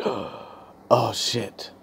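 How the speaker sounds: sharp gasp, then a whispered curse under the breath; panicked whisper. Retold or imitated. Student seeing the clock, whispering in panic. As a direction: hiss it in sudden panic.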